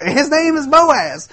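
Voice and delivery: high, thrilled reveal of the name; excited Ruth. Retold or imitated. Ruth tells her mother-in-law about Boaz, excited and high. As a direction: gush the name like big news. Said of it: "you hear the excitement in her voice".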